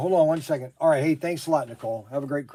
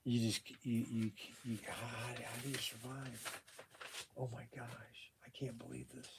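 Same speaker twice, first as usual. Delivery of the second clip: much softer, dazed and trailing; stunned mutter; 3 semitones lower, 16 dB quieter than usual. Real, not acted. Shop owner reeling at the news, softly dazed. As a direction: lose your words in shock.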